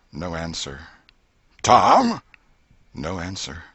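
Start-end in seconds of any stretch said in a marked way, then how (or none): 1.6-2.2 loud call again. A narrator's reading. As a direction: shout for the missing boy. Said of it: "The old lady".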